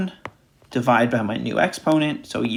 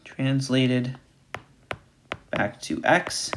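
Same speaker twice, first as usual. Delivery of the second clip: "Translated back to X" spoken slowly and softer, word by word; slow, deliberate emphasis; 5 dB quieter, much slower than usual. Shown as a demonstration. Teacher spelling out the key step, slowly. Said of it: "and no, that is not a mistake".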